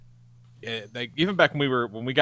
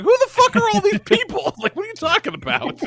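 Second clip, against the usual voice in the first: high-pitched, hammed-up disbelief; mock incredulous outrage; 4 dB louder than usual. Groom balks at fiancée's huge guest list, hammed-up incredulous. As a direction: retell your baffled protest, voice leaping up.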